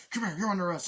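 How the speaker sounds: high, loud command; mock shouted order. A cop arresting Nicolas Cage's character, shouting. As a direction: bark it like a cop at a crime scene. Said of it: "He's like".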